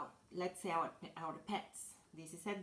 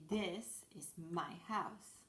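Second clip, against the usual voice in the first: slow model sentence; slower than usual. Shown as a demonstration. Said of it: "we say".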